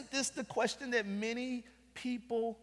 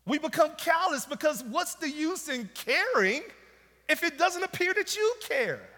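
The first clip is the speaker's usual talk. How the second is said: raised, insistent preacher's plea; impassioned preaching; 5 semitones higher than usual. Real, not acted. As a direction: press each challenge to God harder, then ease off. Preaches with rising intensity.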